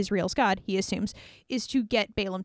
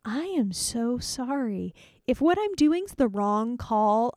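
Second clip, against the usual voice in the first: sheepish apology; slower than usual. Acted. Balaam apologises to the angel, slow and mildly sheepish. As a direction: mumble the sorry slowly, abashed. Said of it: "And Balaam's like".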